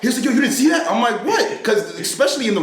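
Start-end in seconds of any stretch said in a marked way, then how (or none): 0.2-0.9 high, loud, incredulous question; amazed imitation. Imitating Phil back on the phone, amazed and excited. Acts out Phil's amazed return. 1.2-1.6 very high-pitched retold "what"; baffled. Retelling his reply to Phil on the phone, baffled.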